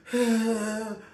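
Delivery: high, loud drawn-out mock sob; fake crying wail. Actor showing drama teacher his crying, badly faked wail. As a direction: force out a badly faked cry. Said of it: "like, a crying".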